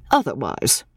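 "Otherwise" said softly with a falling, closing tone; "Otherwise" dropped quiet and final; final-sounding. A narrator's reading. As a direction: let "Otherwise" land like a last word. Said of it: "as if the word held finality".

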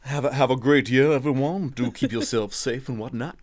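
playful, hammed-up American accent; British guest putting on an American accent. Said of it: "Perfect American accent".

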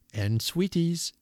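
high, slow, savored words; expressively. A narrator's reading. Old man promising sweets to children, slow and expressive. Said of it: "he added expressively".

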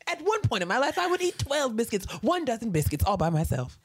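high, astonished voice; imitating Andre. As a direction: marvel at it up high. Voicing Andre again.

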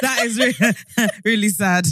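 imitating a friend's giggly protest; mock sympathy. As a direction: stretch it out, breaking into laughter. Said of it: "You know, you're like".

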